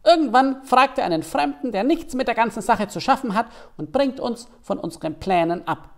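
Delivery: high hare voice, resigned sigh. Acted. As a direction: let the hare sound weary but high. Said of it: "sagte er resigniert". (resignierte, hohe Hasenstimme)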